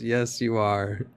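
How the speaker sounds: slow, drawn-out mock retort; mock lawyer retort. Commentator mimicking the lawyer's retort, slow mocking. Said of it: "The lawyer says".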